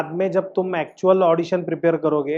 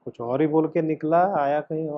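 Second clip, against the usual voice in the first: wounded; 4 dB quieter than usual. Shown as a demonstration. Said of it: "बोल मेरे पीछे।".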